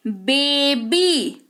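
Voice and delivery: slow "बेबी" ending on a long "ee"; "बेबी" in two drawn syllables, the Y heard as "ee"; final Y as ee. Shown as a demonstration. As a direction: stretch the last sound of "बेबी" into "bee". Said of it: "ई के तौर पर आता है".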